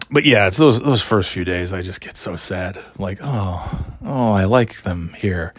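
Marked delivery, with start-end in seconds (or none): 3.2-5.5 mock sad sigh. Sad parent missing kids.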